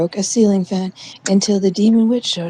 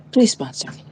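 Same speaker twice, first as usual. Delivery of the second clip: mock commercial. Begging NyQuil for sponsorship in a light ad voice. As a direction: pitch it like a cheesy ad.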